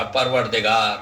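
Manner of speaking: low, subdued plea for forgiveness; humble low-pitched supplication, acted; acted repentant prayer. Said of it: "دعا کرنے لگا".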